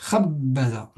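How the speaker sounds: "Khabbaza" leaning on the first syllable; stress on KHAB. Shown as a demonstration. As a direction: press and hold "Khab", let "ba-za" drop. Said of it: "On appuie ici sur la première syllabe". (« Khabbaza » en appuyant la première syllabe)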